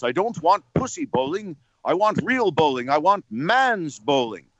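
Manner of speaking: mildly agitated rock-star impression. Rock star correcting his baffled host, mildly agitated and insistent. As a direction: insist with mock agitation, drawing out the last demand. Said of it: "he's getting, like, agitated".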